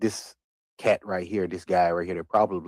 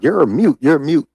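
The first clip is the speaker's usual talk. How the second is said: loud taunting call, high and mocking; mocking shout; 7 semitones higher, 9 dB louder than usual. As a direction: shout it at him as a playground taunt. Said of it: "And they said".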